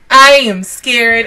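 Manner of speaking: slow, loud, emphatic "I am scared"; emphatic fear. Real, not acted. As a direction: spell out "I am scared" slowly and firmly. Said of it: "I'm scared".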